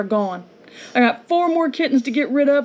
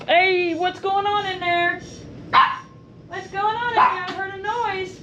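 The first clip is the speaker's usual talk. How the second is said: higher, softer call to the dog; 7 semitones higher, 4 dB quieter than usual. Real, not acted. Vlogger calls to her dog about a noise, high soft call. Calling to pet inside house.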